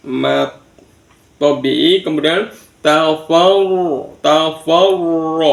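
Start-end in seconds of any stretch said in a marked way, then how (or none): 2.9-5.4 tafawur with a held, rolled r; doubled r. Shown as a demonstration. Teacher showing the doubled letter, tafawur with long r. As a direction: lean on the r in tafawur, drawing it out. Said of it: "ro-nya di tasjid".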